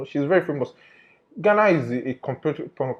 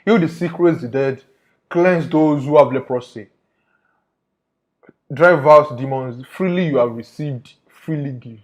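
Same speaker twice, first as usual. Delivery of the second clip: reciting scripture; 6 dB louder than usual. Retold or imitated. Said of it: "this is the Bible talking".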